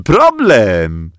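"problem" dropping back down, still loud. Acted. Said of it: "tłumaczył, trzymając się za brzuch".

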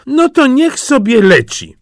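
high, loud princess in a huff; petulant dismissal. A narrator's reading. Princess rejecting the nightingale, petulant dismissal.

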